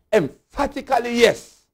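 high-pitched, firm "Emphatically, yes"; emphatic yes. Real, not acted. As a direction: affirm it high, punching "yes".

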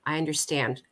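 a soft, gently reassuring "I understand"; mild imitation of a social worker soothing a child; social worker's reassurance. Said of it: "they would say".

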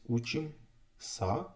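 "Учимся" dragged to half speed, rising at the end; slow-motion "Учимся"; very slow model word. Shown as a demonstration.

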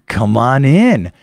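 mock seductive invitation from the doorway; inviting window lady. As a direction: draw him inside with a slow lure. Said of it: "they're kinda like".

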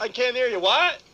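high, teasing can't-hear-you act; mock deafness. Host re-enacting talking over a woman, mock deafness. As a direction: badger like a bratty child. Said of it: "and I'm like".

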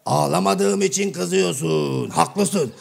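slow, drawn-out mock mourning; mock lament. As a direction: stretch the words like a comic wail. Mishears, starts mock mourning.

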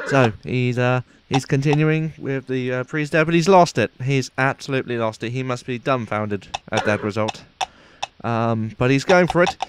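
lightly put-on posh sports commentator voice; understated mock commentator accent. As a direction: call it like a stuffy TV race announcer. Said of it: "this accent is very difficult to keep up".

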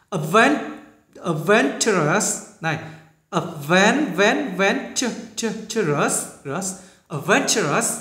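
adventurous built from advent, venture; syllable build-up. Shown as a demonstration. Teacher drilling adventurous in parts. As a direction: piece adventurous together slowly. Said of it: "những chữ hơi khó phát âm".

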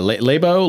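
"Labo" tried out as LAY-bo; unsure pronunciation. Shown as a demonstration. Host wondering how to pronounce a product name, unsure try at "Labo". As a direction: say "Labo" as LAY-boh, hesitantly. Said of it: "how do I pronounce this".

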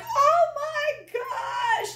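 high, drawn-out mock shriek; loud, hammed-up alarm; acted panic. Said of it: "And you're like".

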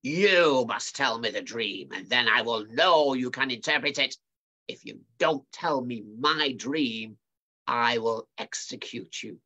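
demanding king. Acted. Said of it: "Nebuchadnezzar demanded".

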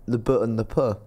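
"but" as a short B sound, "puh" as a puff of P; letter sounds. Shown as a demonstration. Comparing B and P for host, "but" and "puh" as letter sounds. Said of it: "they are quite similar".

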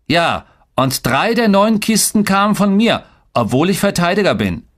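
put-on high-pitched proud kid brother; keen one-upping, pitched well up; boasting boy. A narrator's reading. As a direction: brag eagerly in a high boy's voice. Boys compete in boasting.

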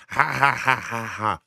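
a hint of a mocking cackle, quick and high; mocking fake laugh. Commentator mocks the crowd's laughter with fake cackle. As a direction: mimic the crowd laughing at people. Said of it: "But it's not this".

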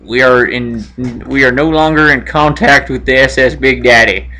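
lightly acted astronaut reporting to base, low register; radio role-play. Role-plays astronaut and mission control.

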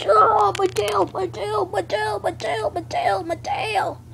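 high whiny hurt creature; mock wail. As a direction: whine like a toy that got hit. Creature hurt, wailing about tail.

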